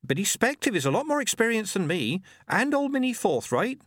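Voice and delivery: put-on high, flustered young voice; young midwife flustered at the praise; hunted girl. A narrator's reading. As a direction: babble nervously, voice way up. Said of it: "now looking hunted".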